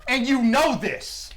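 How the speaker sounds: defiant catchphrase. Retold or imitated.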